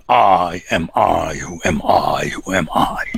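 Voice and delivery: a lonely "who am I" trailing off into a whisper; mock self-questioning. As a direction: let the self-obsessed chant fade out. Mocking the self-centred individual.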